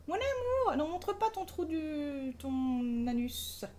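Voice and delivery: high, slow coaxing to a pet; pet talk. Real, not acted. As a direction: coo it slowly at the cat. Talking to her cat.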